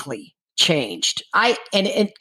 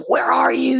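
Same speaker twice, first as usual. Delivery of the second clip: retold yelling; 7 semitones higher than usual. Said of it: "he started yelling at me".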